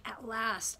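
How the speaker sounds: Adam's softened "At last"; tender at last. Retold or imitated. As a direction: say "At last" as quiet relief. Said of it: "what it actually means".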